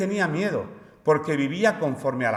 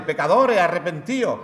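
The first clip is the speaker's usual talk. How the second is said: mock preacher's cry, pitched up; street evangelist's call; 3 semitones higher than usual. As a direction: imitate someone haranguing bus passengers. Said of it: "empiezas a soltarle".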